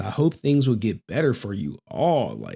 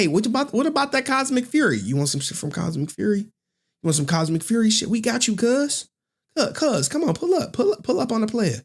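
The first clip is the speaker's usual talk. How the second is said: high, hyped hustler calling cuz; pushy street seller; 6 semitones higher than usual. Retold or imitated. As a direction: pull the buyer in like a street vendor. Seller hustling props to buyer.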